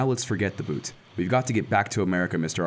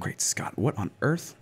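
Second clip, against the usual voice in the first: shocked gasp; 3 semitones higher, slower than usual. Acted. Shocked reaction to bad news.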